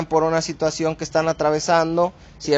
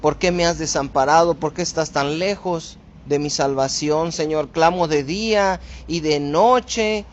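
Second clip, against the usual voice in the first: humble plea; 2 semitones higher than usual. Shown as a demonstration. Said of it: "no lo está diciendo en una forma de queja".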